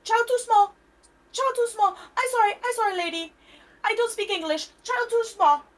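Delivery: high, loud, broken-English mock Asian accent; exaggerated fake Asian accent. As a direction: play up a fake Asian accent to dodge angry guests. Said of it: "fake Asian accent, like, exaggerated".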